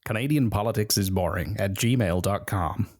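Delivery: put-on Canadian accent on the email. Shown as a demonstration. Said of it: "I can do it in a Canadian accent if you want".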